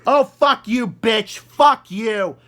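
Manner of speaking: angry retort. Real, not acted. Commentator cursing at a played apology, angry. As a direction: curse back at the apology, outraged.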